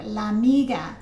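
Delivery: "La amiga" blended with a single shared a; "La amiga" as one joined word; words smushed together. Shown as a demonstration. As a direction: run "La" straight into "amiga". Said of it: "we smush it together".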